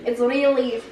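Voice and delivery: harsh Russian English; Russian accent. Shown as a demonstration. Child describes it to family, Russian accent. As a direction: keep up a hard Russian accent. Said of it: "again, it's very harsh".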